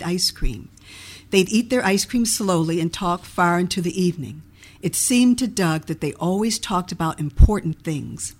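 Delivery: measured storybook reading; story narration. A narrator's reading. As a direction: read the story aloud with clear, even phrasing. Reads own book aloud.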